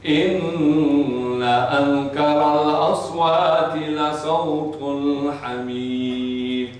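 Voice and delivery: flowing melodic Quranic chant; Quran recitation. Acted. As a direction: intone it like a reciter. Woman answers with Quran verse.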